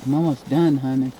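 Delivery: chewing hot food while talking; mouth full of hot food. Real, not acted. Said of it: "my mouth is on fire".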